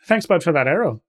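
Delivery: Canadian slipping into Irish; accidental Irish accent. Acted. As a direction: aim for Canadian, come out Irish. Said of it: "It's fucking Irish again".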